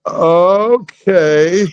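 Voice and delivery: high, put-on wrestler voice, family-friendly version; Iron Sheik. Actor agreeing at audition to a family version, imitating Iron Sheik. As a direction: play the wrestler cleaned up, pitched well up. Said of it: "a family version of Iron Sheik".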